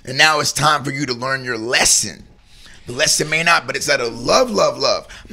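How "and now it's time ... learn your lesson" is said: parent scolding. Retold or imitated. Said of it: "Like a parent to a child".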